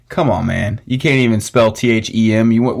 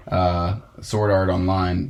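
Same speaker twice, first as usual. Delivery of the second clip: normal talking voice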